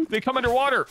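high, loud startled gasp; shocked cry. Real, not acted. Gasp, sudden discovery.

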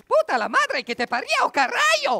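high, loud screeching curse; screamed insult. Acted. Shouting insults in a duel.

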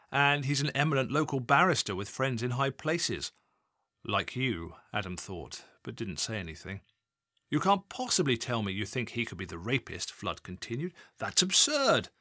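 scornful senior officer, rising to a sharp end; indignant boss. Acted. Assistant chief constable defending his barrister friend, scornful. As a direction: dismiss the idea with contempt.

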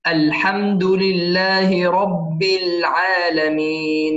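slow, measured tajweed recitation with long held vowels; Quran recitation. Shown as a demonstration. Teacher recites the verse for students, slow measured recitation. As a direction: recite it slowly, drawing out the final syllable.

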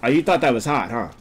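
usual speaking voice

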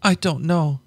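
high frightened outburst; frightened cry. Acted. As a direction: cry it out in fear. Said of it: "she cried".

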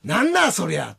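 comic Okayama comeback with a jumping pitch; sample Okayama-dialect put-down; Okayama-dialect retort. Shown as a demonstration. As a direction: demonstrate an Okayama tsukkomi. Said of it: "岡山弁のツッコミしたり".

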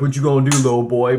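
loud mock taunt; lightly acted taunting; teasing. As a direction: tease like a bully, playfully. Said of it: "they'll be teasing you".

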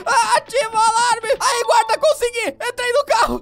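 loud high panic; frantic shouting. Acted. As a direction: shout in a rush. Escaping dog into car.

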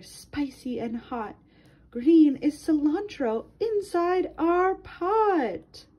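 lilting read-aloud for a class; reading to children. Acted. Teacher reading a color book to her class, lilting read-aloud. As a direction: read it to little ones, rhyme by rhyme.

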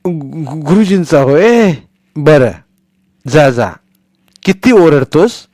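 relieved then scolding the noise; satisfied grandmother. Acted. Grandmother sending Sonya off, scolding his shouting.

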